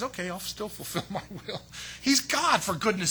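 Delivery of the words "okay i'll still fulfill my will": calm God. Retold or imitated. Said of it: "God says".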